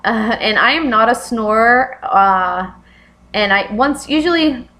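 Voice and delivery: talking while chewing gum; words round a wad of gum. Real, not acted. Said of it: "I'm sorry, I'm chewing gum".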